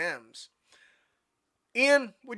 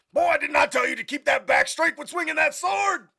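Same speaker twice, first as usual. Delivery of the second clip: loud, high scolding bellow; hammed-up sergeant dressing-down; drill sergeant shout; 10 semitones higher, 9 dB louder than usual. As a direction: yell a correction at a recruit. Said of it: "if you're a, uh, a drill sergeant".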